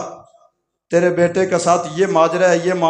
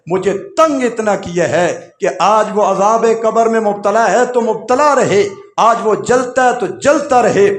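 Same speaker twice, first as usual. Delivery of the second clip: higher and louder, bitter and unforgiving; bitter refusal; 3 semitones higher, 4 dB louder than usual. Acted. Old mother refusing the young men, bitter angry outcry.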